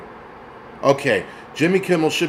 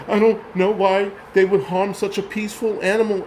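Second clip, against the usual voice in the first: mock-weepy talk-show host, pitched higher; whiny fake-tearful plea, hammed up; Jimmy Kimmel crying; 5 semitones higher than usual. Mocking Kimmel crying over the hunted lion, mock-weepy whine. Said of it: "This is Jimmy Kimmel crying".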